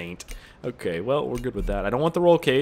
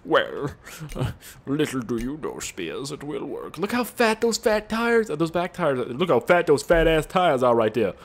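Professor Xavier; 3 semitones higher than usual. Retold or imitated. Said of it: "Professor Xavier comes out of nowhere".

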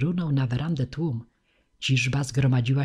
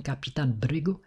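plain reading voice

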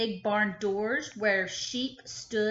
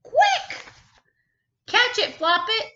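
high, loud urgent shout; Chicken shouting; 12 semitones higher, 8 dB louder than usual. Acted. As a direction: shriek for the bunny to catch the chick. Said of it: "Chicken shouted".

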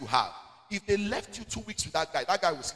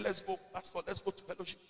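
soft coaxing invitation, softer; coaxing lady, quieter; 9 dB quieter than usual. Retold or imitated. Lady coaxing the young pastor to fellowship, spoken softer. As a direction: lure the pastor along gently and softly. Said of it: "She said".

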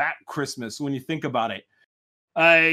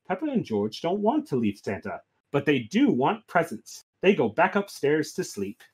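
story narration; 4 dB quieter than usual. A narrator's reading. Children go back to bed, soft story narration. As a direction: ease down toward bedtime. Reads Peppa story aloud.

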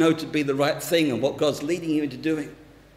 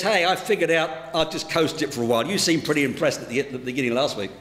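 quick, offhand reply trailing lower; lightly played couldn't-care-less; nonchalant shrug; 4 semitones lower, faster than usual. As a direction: toss it off with an acted shrug. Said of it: "the parrot shrugs his shoulders and says".

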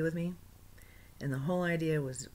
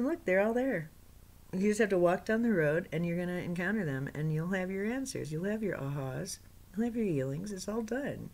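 joyful guide; 3 semitones higher than usual. Retold or imitated. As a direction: promise it with delight. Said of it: "he said, dancing and so happy".

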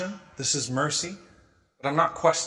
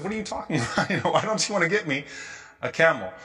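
confused question; 3 semitones higher than usual. Retold or imitated. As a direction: ask it as if baffled by the offer. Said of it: "she was confused by that".

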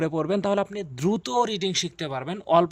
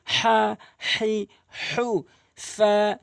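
drawn-out vowels; 3 semitones higher, much slower than usual. Shown as a demonstration. Teacher demonstrating long vowels to viewers, slow and stretched. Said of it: "বড় হা আনতে হবে".

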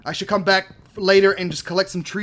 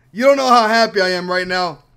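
louder, leaning on don't; emphatic joy; 6 dB louder than usual. Real, not acted. Gamer insists to viewers how happy he is, emphatic. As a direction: push it out to the viewers.

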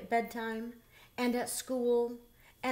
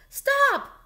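very high, loud panicked shout; shouted stop; 11 dB louder than usual. A narrator's reading. Bear stopping Gertie's third bite, loud panicked shout. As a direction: stop your friend's spoon mid-bite. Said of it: "Bernard cried".

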